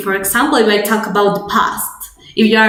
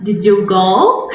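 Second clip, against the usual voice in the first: "Did you go?" slow, rising on "go"; question tune; 5 semitones lower than usual. Shown as a demonstration. Teacher modelling the English question tune, slow rising. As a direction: ask it slowly with a rising end. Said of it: "add that accent of".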